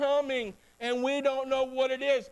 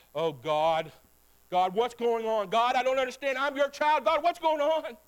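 rising, louder desperate plea to God; anguished prayer; 2 semitones higher, 4 dB louder, slower than usual. Retold or imitated. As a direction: cry out to God in confusion. Prayer voiced in sermon.

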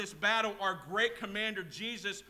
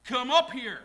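loud, raised call from on high; 6 semitones higher, 11 dB louder than usual. Acted. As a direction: summon them up with a shout. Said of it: "the voice speaks, and he says".

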